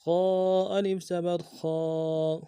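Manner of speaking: heavy خا with long aa; stretched alif. Shown as a demonstration. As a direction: hold the aa in خا a beat longer. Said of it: "الف مدہ ایک الف دال میں کھینچیں گے".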